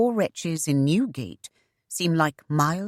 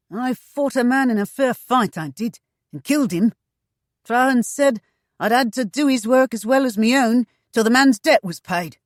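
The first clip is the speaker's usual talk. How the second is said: higher, louder, eager rough voice; fat eunuch tavern boss; 8 semitones higher, 7 dB louder than usual. Acted. Mother quizzes the newcomer, pitched up and eager. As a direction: lean in, pitched up and keen.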